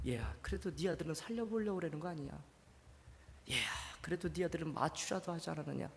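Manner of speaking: tender whispered voice of God; whispered God's voice. Retold or imitated. God's words repeated, whispered.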